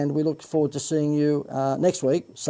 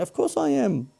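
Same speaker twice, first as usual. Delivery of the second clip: high swoop on "course", then falling off at the end; Seinfeld inflection; 13 semitones higher than usual. Acted. Host answering his own question Seinfeld-style, high swooping "course". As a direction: ask and answer your own question like a sitcom comic. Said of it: "I did the inflection like Seinfeld then".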